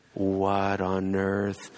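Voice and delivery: very slow, drawn-out disbelief; retold exasperation. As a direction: stretch out each word in stunned annoyance. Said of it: "I'm pissed off".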